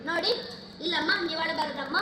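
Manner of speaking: soft-edged, restrained pleading; gentle consoling. Acted. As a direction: soothe a weeping mother. Son consoles his weeping mother. (ತಾಯಿಯನ್ನು ಸಂತೈಸುವ ಧ್ವನಿ)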